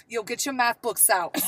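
teacher lapsing into New York talk; mock New York accent on a classroom order; put-on New York accent. Teacher to students after a night out, mock New York accent. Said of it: "There's that New York accent".

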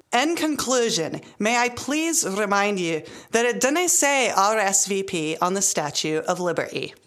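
careful, amateur Scottish accent; attempted Scottish accent. Shown as a demonstration. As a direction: try the line in a slightly shaky-handed Scottish accent. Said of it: "say that in a Scottish accent".

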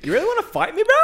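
high, mocking bro voice; strained bro challenge; mock tough guy. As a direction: goad him like a meathead.

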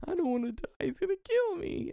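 put-on high kid voice, reading the line plainly; a child reciting his line without feeling; flat child line reading. Shown as a demonstration. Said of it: "with a little bit more sadness, honey".

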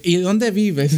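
asking it through laughter; retelling the hospital intake with friends, laughing mock question; laughing mock nurse. Mimicking nurse questions while laughing.

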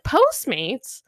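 "Postmates?" asked with a rising, puzzled tune; puzzled question. Retold or imitated. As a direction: ask "Postmates?" as if unsure you heard it right. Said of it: "I'm like".

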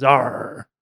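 loud pirate arr; pirate growl. Retold or imitated. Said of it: "That didn't sound like it was".

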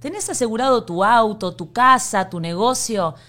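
casual sponsor plug; ad read. Acted. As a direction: pitch the insurance to listeners. Reads insurance sponsor ad. (anuncio de seguros leído)

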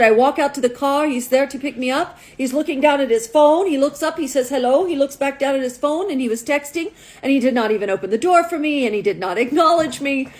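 put-on complaint in a light Russian accent. Russian model recounts the date to matchmaker, Russian accent. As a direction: list grievances with a hint of Russian. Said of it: "This is my best Russian accent".

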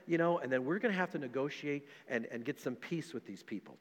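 hushed, quick, condescending mock counseling. Brothers mocking David with soft, fast, condescending counsel. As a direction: talk down to David like a patronising therapist. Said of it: "his brothers were probably like".

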